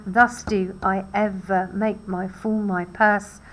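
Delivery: slow, even beat on every second syllable in "Thus do I ever make my fool my purse"; measured iambic pentameter reading, slightly deliberate; iambic stress. Shown as a demonstration. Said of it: "And the second syllable is stressed".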